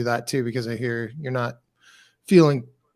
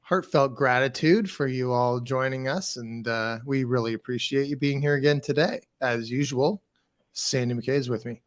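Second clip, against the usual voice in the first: soft radio announcer voice. Acted. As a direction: ease into a gentle radio host read. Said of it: "the soft radio announcer voice".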